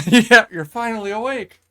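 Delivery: hammed-up wake-up line; Skyrim intro line. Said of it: "That's the intro".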